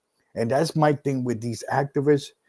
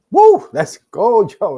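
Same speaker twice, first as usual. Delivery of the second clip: very high, loud woo, then a loud let's go; hype shout; 8 semitones higher, 10 dB louder than usual. Real, not acted. Host hyping up his new episode title, a very high loud cheer. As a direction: pump the crowd up.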